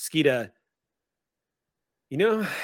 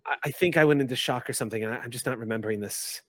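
flustered student; faster than usual. Acted. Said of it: "glances about and says".

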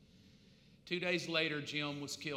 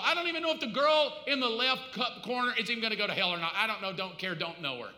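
mock indifference; faster than usual. Mocking a self-absorbed churchgoer.

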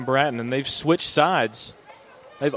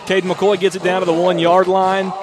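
excited recap; 4 semitones higher than usual. Real, not acted. Color man recapping the score.

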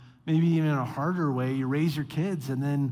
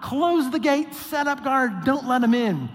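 higher, firm, commanding bark; stern orders; 7 semitones higher, 4 dB louder than usual. Retold or imitated. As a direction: slam the gate shut with words. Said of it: "And so Nehemiah's like".

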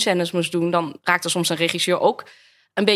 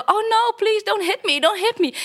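mock pleading; 12 semitones higher than usual. Acting pleading victim in audition.

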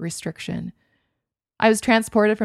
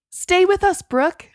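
higher, louder call to stay awake; urgent call; 11 semitones higher, 6 dB louder, slower than usual. A narrator's reading. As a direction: call her back before she slips away. Attendant calling to fading patient.

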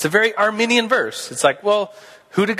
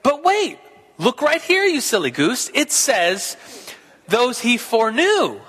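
higher, playful gotcha voice; teasing Arminianist; 5 semitones higher than usual. Retold or imitated. Teacher voicing an Arminian rebutting Calvinists, higher and teasing. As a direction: poke fun like a debater scoring a point. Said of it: "the Arminianists would say".

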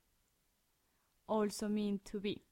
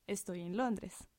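quick. Shown as a demonstration. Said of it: "you said that really quick".

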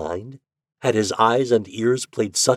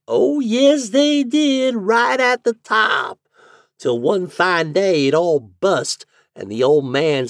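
high, loud drawling landlady; landlady's drawl; 11 semitones higher, 5 dB louder, slower than usual. A narrator's reading. Landlady telling the lodger the house history. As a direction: gossip about the dead man.

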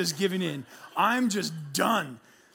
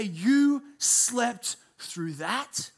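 mild disbelief; 3 semitones higher, much slower than usual. Retold or imitated. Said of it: "and say".

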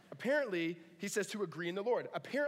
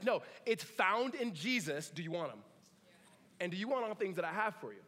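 God's voice; 2 semitones higher than usual. Retold or imitated. Voicing God answering.

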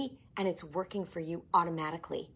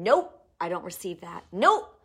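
firm refusal; 4 dB louder than usual. Shown as a demonstration. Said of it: "When doubt and unbelief comes in".

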